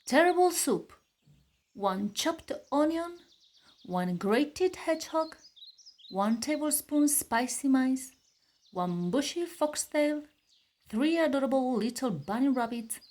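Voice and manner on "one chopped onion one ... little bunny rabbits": recipe list. A narrator's reading. Reading the soup recipe list.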